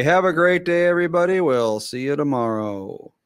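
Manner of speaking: cheerful host sign-off; show sign-off. Shown as a demonstration.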